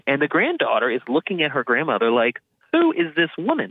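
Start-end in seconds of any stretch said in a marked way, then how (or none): 2.7-3.7 high, incredulous mock gasp of a question; stunned disbelief. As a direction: act out the granddaughter's shock. Granddaughter stunned by grandma's story.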